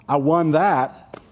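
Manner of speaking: slow, laughing smug boast; smug winner. Pretend. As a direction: gloat with a chuckle. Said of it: "you walk away going".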